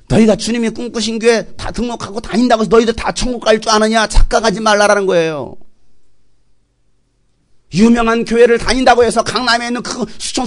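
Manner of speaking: insistent preacher's rebuke; forceful preaching. Acted. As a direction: warn the flock with urgency. Preaches a warning at full force.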